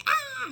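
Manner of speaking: a high, loud, exaggerated shriek; a shrill cry of panic, hammed up; mock shriek. Scorpio imagined panicking, a shriek. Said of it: "that kind of thing".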